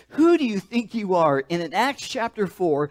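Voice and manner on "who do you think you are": fuller, louder and higher mock challenge; louder indignant challenge. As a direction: hit it harder on the repeat. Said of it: "the modern translation".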